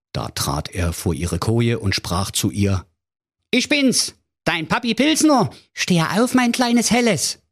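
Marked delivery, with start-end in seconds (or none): 3.5-7.4 high, fussy comic king; high voiced king calling his little girl; King Pilsner voice. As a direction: play the doting, silly old king waking his daughter. King voiced in fairy tale.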